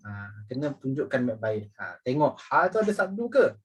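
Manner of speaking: ordinary talk, nothing marked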